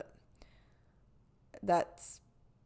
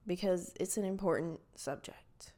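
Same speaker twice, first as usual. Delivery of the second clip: whispered aside; 3 semitones lower, 5 dB quieter than usual. Real, not acted. Trailing aside.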